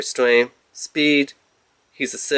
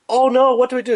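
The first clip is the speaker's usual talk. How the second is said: mock panic; 11 semitones higher, faster than usual. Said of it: "they're like".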